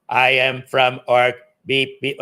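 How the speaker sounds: alien voice. Retold or imitated. Auditioning actor at Happy Days does a hammed-up slow alien. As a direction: drawl it out like a goofy spaceman. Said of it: "The guy was going up there".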